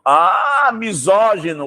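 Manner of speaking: sudden high exclaimed "misógino!"; a teacher's mock gasp at "misógino"; mock surprise. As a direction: act shocked at the word. Teacher reacts to a word.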